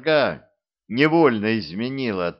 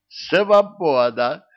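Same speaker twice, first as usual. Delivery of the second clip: joyful cry; 6 semitones higher, 6 dB louder, much slower than usual. A narrator's reading. Demon freed, exults.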